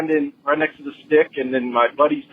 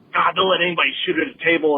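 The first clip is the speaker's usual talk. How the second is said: mock attitude; 3 semitones higher, faster than usual. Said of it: "kinda giving us some attitude".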